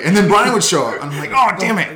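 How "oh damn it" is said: loud, high-pitched retold dismay; hammed-up "oh no" reaction; mock dismay. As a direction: groan it in comic exasperation. Retold dread at teammate showing up.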